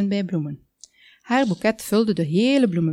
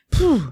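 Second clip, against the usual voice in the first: sigh of relief; 8 semitones higher, 5 dB louder than usual. Acted. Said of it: "zuchtte Dick".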